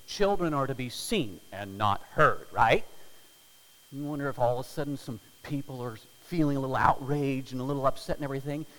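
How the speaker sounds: usual speaking voice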